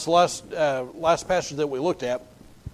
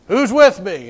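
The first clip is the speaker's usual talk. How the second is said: Jehu calling up; 3 semitones higher, 8 dB louder than usual. Retold or imitated.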